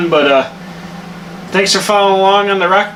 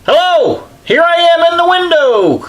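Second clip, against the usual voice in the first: silly high voice; 12 semitones higher than usual. Pretend. Silly voice while working.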